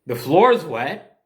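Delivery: mother can't believe the floor is wet; incredulous echo. Retold or imitated. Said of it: "her face is immediately like".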